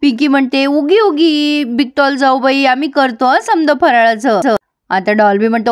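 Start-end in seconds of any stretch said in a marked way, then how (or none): 0.7-4.6 put-on slow, sweetly hushing a crying child; lightly hammed-up comforting coo; mock soothing. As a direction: pretend tender "there there". Pinky consoles crying sister-in-law.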